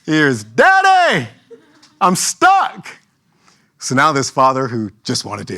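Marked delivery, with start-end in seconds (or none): 0.4-3.0 put-on high, loud little boy's cry; child calling for help. Son calling his dad from the playground, high and whiny. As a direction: call out like a stuck kid.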